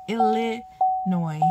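"Illinois" slowly, broken up, ending "noy"; careful pronunciation. Shown as a demonstration. Showing the proper way, slow "Illinois" ending "noy". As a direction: sound out "Illinois" slowly with a silent s. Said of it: "but it's Illa".

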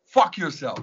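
reliving an angry outburst from the top of the wall; enraged yelling. Retold or imitated. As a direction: hurl the curses up at the border police in a rage. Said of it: "I was enraged".

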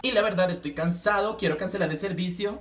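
tired customer. Pretend. Customer complaining to the Claro lady, low and weary. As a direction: sound fed up with the phone company. Customer calling phone company.

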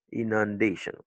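"inundation" as in-un-DAY-shun; "inundation" with a weak ending after DAY; stress before -tion. Shown as a demonstration. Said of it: "l'avant-dernière syllabe".

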